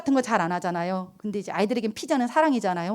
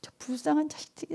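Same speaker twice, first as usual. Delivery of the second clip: pitying sigh; 3 semitones higher, 12 dB quieter than usual. Retold or imitated. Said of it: "너무 짠하더라고요".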